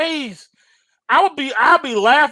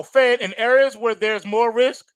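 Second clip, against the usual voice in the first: mock Powell.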